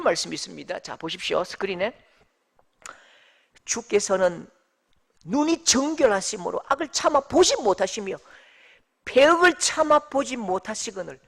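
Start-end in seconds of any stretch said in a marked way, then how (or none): 3.6-11.2 firm, forceful verse reading; emphatic scripture reading. Shown as a demonstration. Preacher reads the verse to the congregation, emphatically. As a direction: read the verse out with weight.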